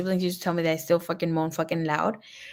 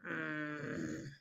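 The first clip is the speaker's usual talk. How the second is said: imitated moan; 4 semitones lower, 19 dB quieter than usual. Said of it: "See, he's moaning".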